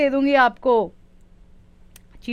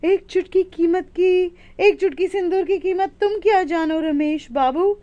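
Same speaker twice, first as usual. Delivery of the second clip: dramatic dialogue hint; 4 semitones higher than usual. Shown as a demonstration. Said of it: "थोड़ा hint और भी दे देती हूँ".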